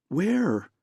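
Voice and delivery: sharp high excited "Where?". A narrator's reading. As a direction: jump up in pitch, eager and urgent. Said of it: "She was excited".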